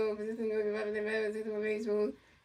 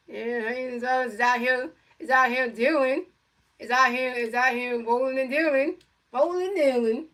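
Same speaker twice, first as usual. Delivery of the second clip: hyped up; 2 semitones higher, 6 dB louder than usual. Acted. Hyped praise of pitcher.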